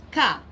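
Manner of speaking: "ka" opening with a K sound; hard C sound. Shown as a demonstration. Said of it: "normally when you see the C".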